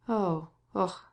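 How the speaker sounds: heavy sighing groan; deep sigh. A narrator's reading. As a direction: let out a weary sigh. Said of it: "he said with a deep sigh".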